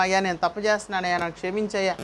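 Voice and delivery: low, soft, hurried mock prayer; humble confession. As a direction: murmur a model confession to God. Preacher models asking God's forgiveness. (వినయంగా, తగ్గు స్వరంలో ఒప్పుకోలు ప్రార్థన)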